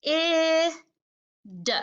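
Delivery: "K, I, d" one sound at a time. Shown as a demonstration. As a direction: isolate each sound, holding "I" as ih. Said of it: "just like that".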